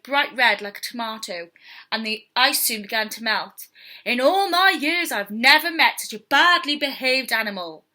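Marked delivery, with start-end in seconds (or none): 4.0-7.9 loud, indignant telling-off; furious rant. Acted. Furious man scolding the badly behaved cub, loud and angry. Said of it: "The man was furious".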